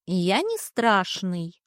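slow, gurgling blob voice; offended gurgling. Acted. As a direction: gurgle it like a hurt little creature. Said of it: "обиженно пробулькала".

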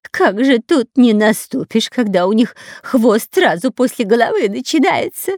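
a touch of a frightened whine; whimper. A narrator's reading. Spy complaining about the snakes' tails, mild whimper. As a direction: plead with mild fear. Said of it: "проскулил Дырка".

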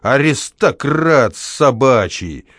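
slow, sneering yell; scornful shout. Acted. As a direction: spit out the insult. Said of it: "вскрикивал дворник". (дворник презрительно кричит)

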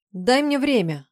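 high, loud protest; angry. A narrator's reading. Woman tearing free of his grip, angry and high. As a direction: demand it angrily, pulling free. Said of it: "Она зло вырвалась".

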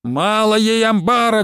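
slow, high angry roar; old woman thundering in the yard. A narrator's reading. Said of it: "гремела Василиса".

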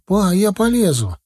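put-on high, anxious little boy's voice; frightened squeak. A narrator's reading. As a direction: pipe up like a scared child. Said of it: "пискнул сверху Саня испуганно". (испуганно, тонким детским голосом)

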